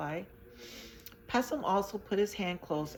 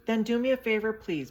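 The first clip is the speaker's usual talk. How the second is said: begging; 5 semitones higher, 7 dB louder than usual. A narrator's reading. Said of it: "begged Pessum".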